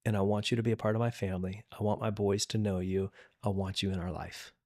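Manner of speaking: soft and low, held close; tender. Real, not acted. Hugging the weeping stepmother, telling her softly he loves her. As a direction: say it gently into a hug.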